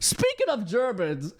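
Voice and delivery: slow, hammed-up transition; playful, drawn-out segue delivery; mock segue. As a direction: announce the topic change with exaggerated deliberateness. Repeats it as joking segue.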